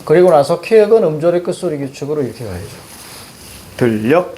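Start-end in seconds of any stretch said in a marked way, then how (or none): 3.8-4.4 들녘 with a double l, ending in k; correct pronunciation demo. Shown as a demonstration. Teacher gives students the correct form, careful demo of 들녘. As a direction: say 들녘 as deul-lyeok. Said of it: "이게 맞는 표현이야".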